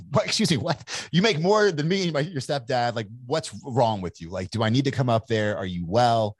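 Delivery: a hint of a disbelieving mother asking if he's well; mock shocked mom. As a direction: play his mother, stunned and worried. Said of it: "which she's like".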